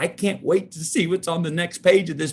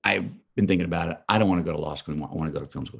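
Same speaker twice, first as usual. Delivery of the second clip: retold conviction; 8 semitones lower, 8 dB quieter, much faster than usual. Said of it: "He heard in my voice the way I said".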